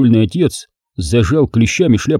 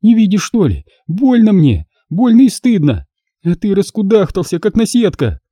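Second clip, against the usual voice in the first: higher, exasperated hurt; pained scolding; 9 semitones higher than usual. Acted. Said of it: "простонала Алёна".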